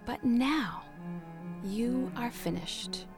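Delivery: tender master. Acted. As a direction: comfort the teacup gently. Master explains lovingly.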